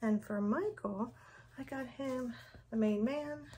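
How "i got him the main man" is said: slightly breathless, light panting; out of breath. Real, not acted. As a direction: say it a little winded. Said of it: "I'm so out of breath".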